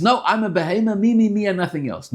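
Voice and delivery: a lightly voiced animal soul. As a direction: play the selfish beast. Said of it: "The Nefesh Abamis says".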